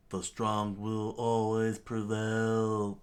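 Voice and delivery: slow, drawn-out villain declaration; villain's cry. Acted. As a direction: proclaim it grandly, stretching the words. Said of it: "Don Krieg screamed".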